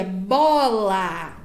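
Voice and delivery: "bola" drawn out on both vowels; stretched, clearly sounded "bola"; modelling a word. Shown as a demonstration. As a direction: model "bola" slowly for a child to copy. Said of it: "pedir que ele diga".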